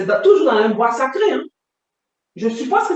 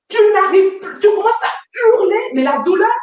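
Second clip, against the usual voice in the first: higher, forceful telling of pain; carried-away raised voice; 7 semitones higher than usual. Real, not acted. Survivor reliving the pain for her interviewer, raised voice. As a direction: voice rising as the memory takes over. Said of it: "quand je parle fort".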